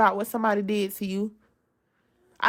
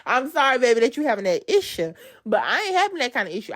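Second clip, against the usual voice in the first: higher-pitched put-on Louisiana accent; 4 semitones higher than usual. Shown as a demonstration. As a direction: lay on a Louisiana accent, playfully. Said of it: "Louisiana accent".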